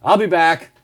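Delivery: Terminator-style flat catchphrase; deadpan movie-robot line; I'll be back. Retold or imitated. Friend mimicking a famous movie line, mock Terminator. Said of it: "He goes".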